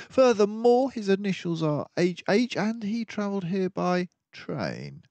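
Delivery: a composed mouse detective taking charge; Basil the detective. Acted. Basil lists his deductions.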